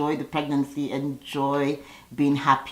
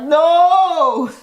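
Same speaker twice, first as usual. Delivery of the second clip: much higher, louder emphatic no; imitating Dennis shouting down her postponing; mock shout; 12 semitones higher, 8 dB louder than usual. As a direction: bark the refusal like an insistent fiancé.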